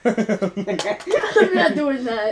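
very slow, laughing "no way"; laughing refusal. Real, not acted. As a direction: drag it out while laughing. Refusing a gross bean.

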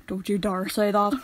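slow, put-on broad Northern Irish accent; badly faked broad Northern Irish warning; overdone Northern Irish accent, drawn out. Shown as a demonstration. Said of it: "you have to go pure broad".

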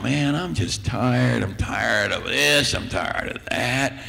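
put-on slow, drawn-out complaining boy; whiny tired teen. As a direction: sigh it out like a worn-out kid. Boy complains to his mom.

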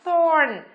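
"Thorn" isolated, falling, with an "or" vowel; model pronunciation. Shown as a demonstration. Teacher asks and answers how C sounds, modelling "Thorn". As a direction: pronounce "Thorn" as a careful model word. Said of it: "Phát âm là gì nào?".

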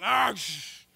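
loud cry ending in a shushing splash; mock shark-attack yell. Cousin warned of sharks under the tower, mock attack yell. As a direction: yell out, then hiss like water.

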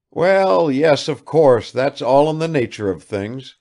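proud father masking his tears; blustering calm. Acted. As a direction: pretend it's all nothing.

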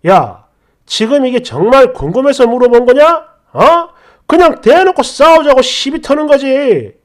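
retold angry scolding; angry husband. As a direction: replay him scolding her for picking a fight. Husband accusing her of picking fight.

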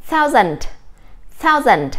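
P=A; correct pronunciation. Shown as a demonstration. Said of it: "chúng ta sẽ đọc là thousand".

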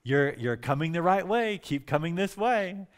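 imitating a distant calling voice; calling guidance. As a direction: guide someone in through the dark. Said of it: "I heard again this voice".

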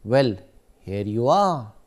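"here you are" dipping then rising again; fall-rise intonation. Shown as a demonstration. Teacher demonstrating a fall-rise tune. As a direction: let the pitch fall and rise back up. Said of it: "For example".

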